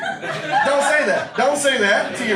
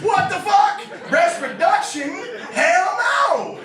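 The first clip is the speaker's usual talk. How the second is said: outraged shout; 8 semitones higher, much slower than usual. Real, not acted. Reacting to the friend's breast reduction plan, outraged high shout. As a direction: yell it like it's a crime.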